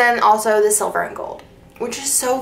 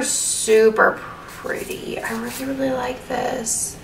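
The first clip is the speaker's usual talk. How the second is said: slow, breathy whisper of delight; hushed admiration; awed whisper; 3 semitones higher, 5 dB quieter, slower than usual. Real, not acted. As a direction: breathe it out, too taken to speak up. Gushing over a planner kit, hushed.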